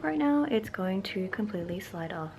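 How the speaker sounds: talking stiffly under a sheet mask; barely moving the lips; face mask on. Real, not acted. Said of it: "I can barely talk right now".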